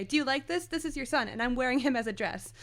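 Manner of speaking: high-pitched imitated indignation; angry rant. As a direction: rant it as a mock-furious threat. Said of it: "she's so angry".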